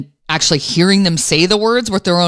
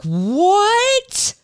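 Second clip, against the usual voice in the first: jolted high what, like a knee-jerk; startled what; 13 semitones higher than usual. Retold or imitated. Mother hearing her son call her mom, startled. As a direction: snap up in sudden disbelief. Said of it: "just this knee-jerk".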